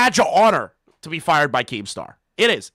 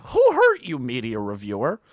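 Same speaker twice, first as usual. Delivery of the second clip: mock hurt; 5 semitones lower than usual. Mocking the reviewer.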